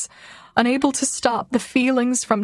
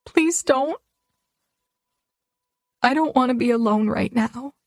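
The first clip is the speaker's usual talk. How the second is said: pleading. Acted. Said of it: "look pleadingly into his eyes".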